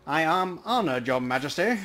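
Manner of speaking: a half-mad troll talking to invisible entities; mumbling troll. Acted. Troll mumbling several conversations.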